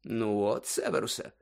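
softly spoken, mild conclusion; quiet, composed. A narrator's reading. Dumbledore concluding to Severus, quietly. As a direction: say it softly, case closed. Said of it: "неголосно додав Дамблдор".

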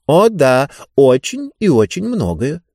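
self-satisfied agreement; know-it-all, pleased with itself; smug book voice. Acted. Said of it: "подтвердил тот же голос".

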